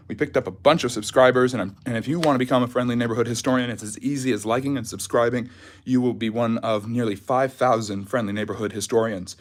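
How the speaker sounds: short of breath after jogging; catching breath while talking. Real, not acted. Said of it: "excuse me for my shortness of breath".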